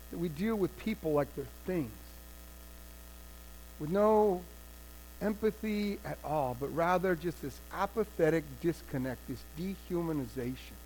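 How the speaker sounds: ashamed lament. Acted. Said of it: "the king is ashamed".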